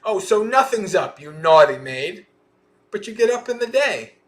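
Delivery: loud, high mock scolding; angry and upset. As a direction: play an indignant mistress telling off her maid. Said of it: "Angry and upset, she scowled".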